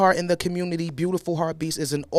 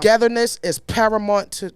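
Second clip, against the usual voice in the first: Brooklyn accent. Real, not acted. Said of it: "it's my accent".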